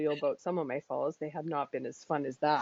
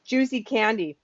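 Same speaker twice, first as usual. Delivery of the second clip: talking while licking fingers; words round sticky fingers. Real, not acted. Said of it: "I have to lick my fingers now".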